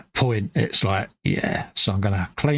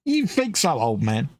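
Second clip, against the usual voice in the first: mocking bladder voice; 2 semitones higher than usual. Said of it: "your bladder's going".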